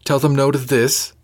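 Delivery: incredulous echo, voice rising; rising disbelief. A narrator's reading. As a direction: repeat it back in disbelief. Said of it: "her voice rising a little".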